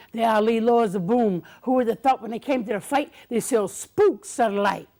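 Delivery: rhythmic, punchy boxing-poem chant; rhymed boast recital. Acted.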